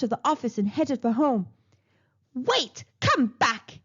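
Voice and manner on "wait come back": yelling. Acted. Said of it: "yelled Mama Fin".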